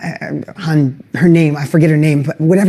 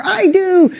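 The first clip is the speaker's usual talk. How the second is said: crowd shouting back; 9 semitones higher than usual. Retold or imitated. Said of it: "Everybody's fired up".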